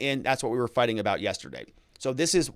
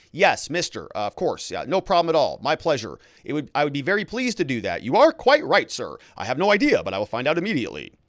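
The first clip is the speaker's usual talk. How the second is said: polite servant; 3 dB louder than usual. Shown as a demonstration. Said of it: "You say".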